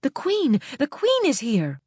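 high, loud call down a hallway; yelled down the hall. A narrator's reading. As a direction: call out to someone far away. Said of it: "she yelled down the hall".

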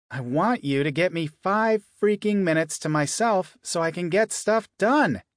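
snapping loudly, fed up; loud outburst. Acted. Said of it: "how loud my voice ricocheted off the walls".

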